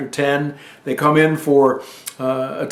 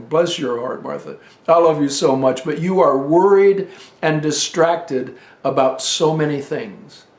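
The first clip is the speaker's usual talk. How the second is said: gentle Jesus. Retold or imitated. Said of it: "I can just hear him".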